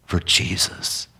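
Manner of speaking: slow, softening thanks; slow grateful prayer. Acted. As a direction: let relief slowly into the words. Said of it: "he says".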